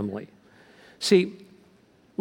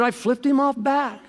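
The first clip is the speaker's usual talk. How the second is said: laughing confession; 11 semitones higher than usual. Retold or imitated. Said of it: "He said".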